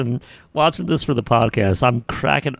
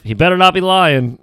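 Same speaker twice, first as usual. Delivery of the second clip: higher, louder demand; mock yell; 7 semitones higher, 6 dB louder than usual. Rick Steiner yelling at Buff, a mock yell. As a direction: bark it at the injured man. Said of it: "yelling to Buff".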